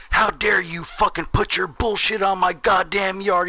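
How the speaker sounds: put-on high, slow, outraged old man; mock an irate neighbor's rant; imitated angry yelling. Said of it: "in my face screaming and yelling".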